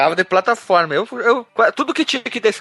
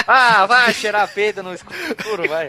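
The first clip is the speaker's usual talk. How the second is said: slow, laughing retort; slower than usual. Real, not acted. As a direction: laugh through the comeback.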